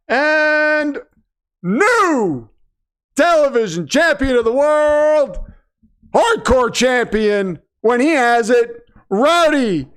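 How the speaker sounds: drawn-out wrestling announcer call; a light ring announcer voice for the new champion. Pretend. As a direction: stretch each word like a ring announcer. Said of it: "warming up the vocal cords 'cause it's gonna be a loud one".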